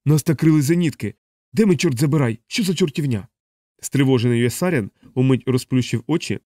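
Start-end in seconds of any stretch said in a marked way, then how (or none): 0.1-3.3 mildly raised, urgent cry; alarmed yelling. A narrator's reading. Pilot yelling into the intercom under flak, alarmed. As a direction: call out in alarm over the intercom. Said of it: "Мак Простак загорлав у переговорний пристрій".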